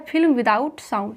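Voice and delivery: each word drawn out slowly; slow teacher's gloss of फिल्म without sound; slow spelled-out gloss. Shown as a demonstration. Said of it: "यहाँ क्या है?".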